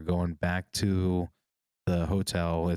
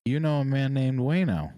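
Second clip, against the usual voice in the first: high, louder disbelieving question; surprised; 7 semitones higher, 4 dB louder than usual. Retold or imitated. Amazed at a stranger in an elevator, high surprise. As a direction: sound stunned by the name. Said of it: "I was like".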